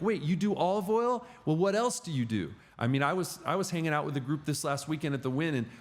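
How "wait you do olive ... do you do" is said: higher-pitched imitation of perked-up curiosity; intrigued listener. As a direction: imitate someone suddenly intrigued. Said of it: "their eyes perk up".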